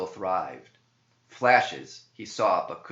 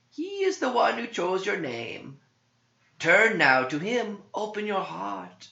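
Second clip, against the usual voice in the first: tempting demon; 9 semitones higher, 6 dB louder than usual. Acted. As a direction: lure the priest toward the beast.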